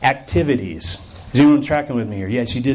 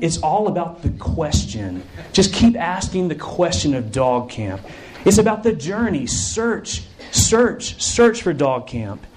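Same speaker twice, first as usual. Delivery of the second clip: dismissive group leader; 3 semitones higher than usual. Acted. Group leader waves off the camper's question, airily philosophical. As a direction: draw out the key words as if sharing wisdom. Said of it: "smiles and kinda laughs it off and she says".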